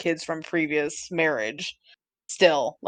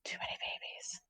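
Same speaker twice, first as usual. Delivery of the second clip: whisper; 20 dB quieter than usual. Real, not acted. Whispered echo of too many babies.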